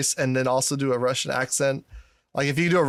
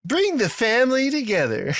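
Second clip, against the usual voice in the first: high-pitched mock trailer tagline; trailer voiceover; 9 semitones higher than usual. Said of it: "that fucking voiceover".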